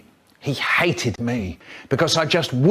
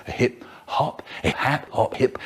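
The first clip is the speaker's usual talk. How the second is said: whispered refrain; 5 dB quieter than usual. Acted. Whispered hip hop refrain.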